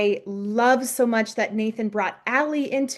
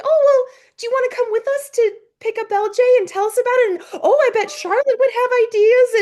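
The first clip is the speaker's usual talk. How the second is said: much higher, fast, cheerful babble; gush, totally oblivious; sweet eager chatter; 12 semitones higher, 6 dB louder, faster than usual. Retold or imitated. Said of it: "Elizabeth is so sweet".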